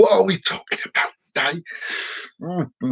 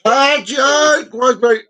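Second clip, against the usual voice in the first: excited; 9 semitones higher, 4 dB louder, much slower than usual. Real, not acted. Excited reaction.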